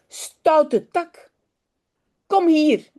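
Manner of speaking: high-pitched acted children's telling-off; mild scolding. Children order the naughty dog back, mildly scolding.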